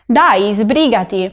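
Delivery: slow, impatient scolding hurry-up; reproachful. Shown as a demonstration. Teacher acting out a reproach to a slow friend. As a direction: chide someone for dawdling. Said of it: "es un dai de reproche".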